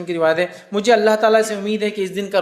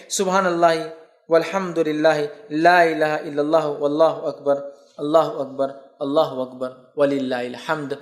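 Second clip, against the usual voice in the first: measured, devout chanting of the takbir; takbir recitation; slower than usual. Shown as a demonstration. Teacher showing listeners the Eid takbir, devout chant. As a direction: recite each Allahu akbar steadily, as in the mosque. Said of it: "ایک اور جو الفاظ ثابت ہے".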